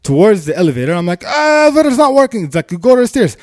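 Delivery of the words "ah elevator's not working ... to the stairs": high, raised mock warning; urgent high-pitched directions, retold. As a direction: re-enact redirecting a panicked neighbour.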